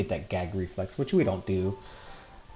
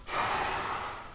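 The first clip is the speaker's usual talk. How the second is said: puffing air out; 8 dB quieter than usual. Shown as a demonstration. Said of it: "puff out their cheeks and then go".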